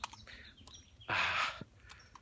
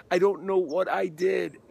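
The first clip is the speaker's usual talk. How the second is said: loud, high, slow acted anguish; retold crying distress; 6 semitones higher, 8 dB louder than usual. Overwhelmed actor to his agent after the show, retold crying distress. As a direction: imitate a distraught actor struggling to get it out. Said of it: "he's crying. He can't get the words out".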